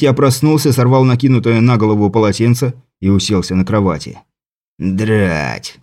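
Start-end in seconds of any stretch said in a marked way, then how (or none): 4.8-5.8 low grumbling leprechaun voice. Acted. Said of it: "пробурчал лепрекон".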